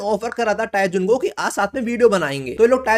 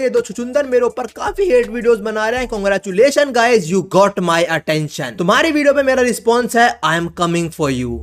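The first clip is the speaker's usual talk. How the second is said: mock gangster threat; 4 dB louder than usual. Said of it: "डायहोन बोलता है".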